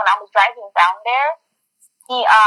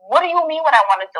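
quick, higher-pitched incredulous retort; irritated; 5 semitones higher, faster than usual. Retold or imitated. Retelling the reply to an indecisive date, irritated. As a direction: throw the question back, exasperated. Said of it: "I got so irritated".

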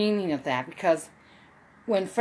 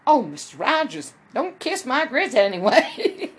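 a singer; 3 semitones higher than usual. Retold or imitated. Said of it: "when I talk like a singer".

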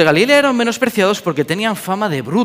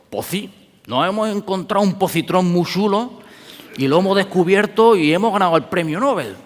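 put-on Andalusian accent; 3 semitones higher than usual. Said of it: "premio Nobel de física diciendo".

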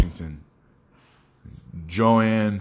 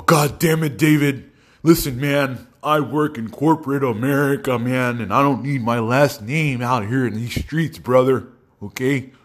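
scared white-man voice; 5 semitones higher than usual. Retold or imitated. Best friend phoning to complain, scared white-man voice. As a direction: plead in a put-on, fretful white-guy voice. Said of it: "talks like a scared, fat white man".

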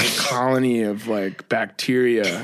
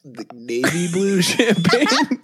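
incredulous question; 6 semitones higher, slower than usual. Real, not acted.

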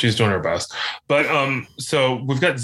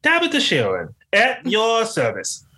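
high, slow mock little girl introducing herself; 10 semitones higher than usual. Auditioning for a girl's role, in a high little girl voice. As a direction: sweetly announce yourself like a child star. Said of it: "and they loved the voice".

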